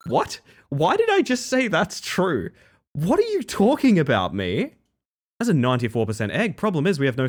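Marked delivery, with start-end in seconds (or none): 0.1-4.7 high, flustered disbelief; high-pitched exasperated bafflement; baffled at self. Real, not acted. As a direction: question yourself in a high incredulous pitch. Baffled at own slip.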